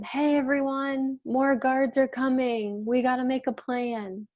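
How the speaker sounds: lightly acted alarm call to everyone; mild yell. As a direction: call out a warning without fully shouting. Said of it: "she yells to everyone".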